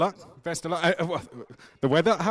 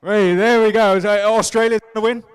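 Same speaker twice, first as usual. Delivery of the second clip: excited; 4 semitones higher, 10 dB louder than usual. Real, not acted. Host hyped after team chant.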